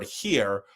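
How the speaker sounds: HERE with the H sounded; pronounced H. Shown as a demonstration. Actor repeats the word friends misheard, H clearly sounded. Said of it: "with an H".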